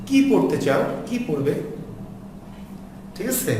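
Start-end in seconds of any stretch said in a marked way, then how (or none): 0.1-1.5 what-question with stress on a lengthened "কি"; "কি" held long, falling end. Shown as a demonstration. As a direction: lean on "কি", let the verb fall. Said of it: "দীর্ঘ করে উচ্চারণ করতে হবে".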